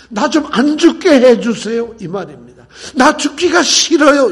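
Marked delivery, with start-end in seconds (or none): 0.1-1.9 louder, slow desperate plea; pleading cry. Retold or imitated. Preacher voicing Jesus begging the Father, slow louder plea. 2.9-4.3 higher, louder and slow, pleading; anguished plea. Retold or imitated. Preacher paraphrasing Jesus' prayer, high loud slow plea.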